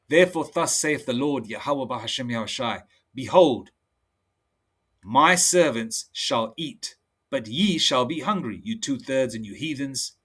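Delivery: slow, measured preaching read; solemn preacher reading verse; scripture reading. Acted. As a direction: lay out each line of scripture deliberately. Reads Isaiah aloud slowly.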